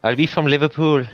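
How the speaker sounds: teasing imitation of botched British; imitated British accent. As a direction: mimic a bad British accent. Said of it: "that is what you sound like".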